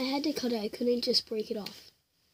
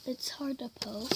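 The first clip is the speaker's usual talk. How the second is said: whispering; 6 dB quieter than usual. Real, not acted. Quietly poking the slime.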